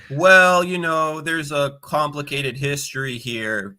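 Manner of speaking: high, slow, evasive hedge; mock hedging. Guest mocking an official's hedging, high and drawn-out.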